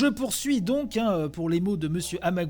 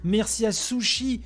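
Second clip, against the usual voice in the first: higher, lively list of thanks; upbeat shout-out; 4 semitones higher than usual. Real, not acted. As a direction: call each name out cheerfully. Reads out thanks to supporters.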